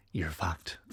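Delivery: hushed whisper of doom; inner whisper. Retold or imitated. Telling herself at the curb, a hushed whisper. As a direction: breathe it like a voice in your head. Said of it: "a quiet voice in my head that just continued to whisper".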